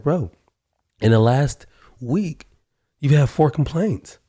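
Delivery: retold pointed comeback, drawn out; emphatic rebuttal. Retold rebuttal to the worker's denial.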